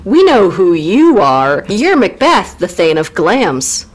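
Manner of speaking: chirpy witches. Acted. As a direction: draw it out with swooping emphasis. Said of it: "so the witches go".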